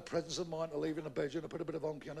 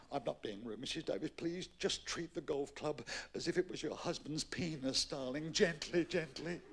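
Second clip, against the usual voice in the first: soft coaxing; 4 dB quieter than usual. Acted. Pro coaching gently.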